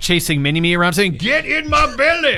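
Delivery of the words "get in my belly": high, slow Fat Bastard Scottish voice; broad Scottish accent. Retold or imitated. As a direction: shout it in a thick Scottish brogue. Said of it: "that thick Scottish accent".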